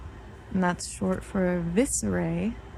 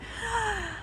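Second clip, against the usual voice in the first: sharp gasp; 13 semitones higher, 8 dB quieter than usual. Real, not acted. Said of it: "I'm choking on water".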